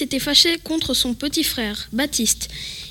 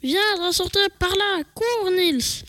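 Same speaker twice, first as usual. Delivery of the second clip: exclamation pressante; 4 semitones higher than usual. Acted. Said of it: "s'exclama Baptiste".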